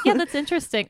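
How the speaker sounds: high, laughing reply. Real, not acted. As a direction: laugh through the words. Reacts to joke, laughing.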